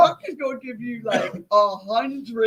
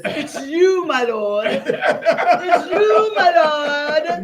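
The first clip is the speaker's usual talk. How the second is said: a hint of a preacher's declaration, louder; lightly voiced prophet pointing out the guilty one; prophet's accusation; 6 semitones higher, 7 dB louder, much slower than usual. Quoting Nathan to the interviewer, mock-solemn accusation. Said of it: "As Nathan the prophet says".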